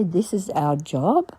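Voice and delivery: This is our job? repeated slowly, rising in disbelief; puzzled question. Retold or imitated. Baffled by men refusing petrol money, rising question. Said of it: "That's a strange thing to say".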